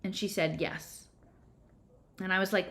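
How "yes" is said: barely audible, fighting tears; a soft yes through held-back tears; holding back tears. A narrator's reading. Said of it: "trying not to cry".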